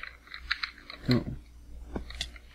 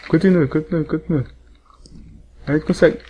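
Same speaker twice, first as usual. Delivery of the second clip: correndo animado; 4 semitones higher than usual. Real, not acted. Fugindo, animando o grupo.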